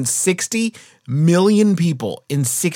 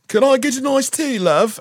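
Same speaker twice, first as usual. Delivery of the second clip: put-on British accent; 11 semitones higher than usual. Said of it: "he has a British accent".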